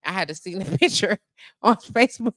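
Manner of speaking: ordinary delivery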